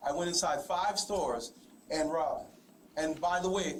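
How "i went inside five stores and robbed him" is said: mock confession in an everyday voice; sarcastic. Real, not acted. Suspect echoes detective's correction, sarcastic. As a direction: play along with the accusation without meaning it. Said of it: "this is me being sarcastic".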